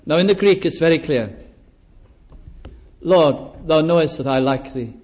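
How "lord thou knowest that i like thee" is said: sad confession. Acted. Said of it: "Sad, isn't it?".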